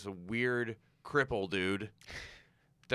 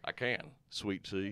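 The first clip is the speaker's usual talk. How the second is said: put-on Southern accent; slower than usual. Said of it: "I can do a Southern accent".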